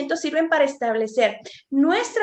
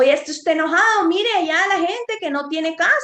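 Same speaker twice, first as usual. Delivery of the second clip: scolding parent; 4 semitones higher, 5 dB louder than usual. Retold or imitated.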